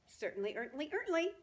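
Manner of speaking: rising to a loud high squawk; blustering gander. Acted. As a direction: bluster grandly.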